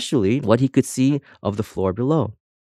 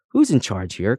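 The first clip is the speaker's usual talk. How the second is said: normal talking voice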